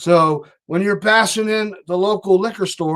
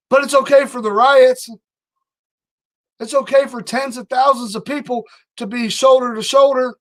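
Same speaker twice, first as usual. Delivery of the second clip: higher, heated sarcastic tirade; real heated sarcasm, voice pitched up; heated rant; 5 semitones higher than usual. Real, not acted. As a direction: let the anger boil through the sarcasm. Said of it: "I got heated there for a moment".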